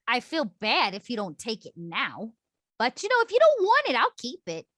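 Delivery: a swooping, animated character voice; shopkeeper character. Acted. Reluctantly offering the item to a customer, animated character voice. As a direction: lively voice jumping high mid-line.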